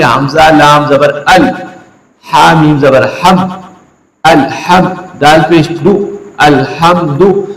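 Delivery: slow chant spelling "अलहम्दु" letter by letter; spelled recitation. Shown as a demonstration. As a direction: build the word slowly from its letters. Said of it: "बल्कि क्या पढ़ेंगे". (हिज्जे करके धीमी तिलावत)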